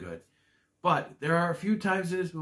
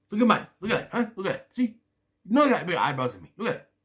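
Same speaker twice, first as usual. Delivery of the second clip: put-on a light New York accent, a bit higher; 6 semitones higher, 5 dB louder, faster than usual. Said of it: "New York accent thing".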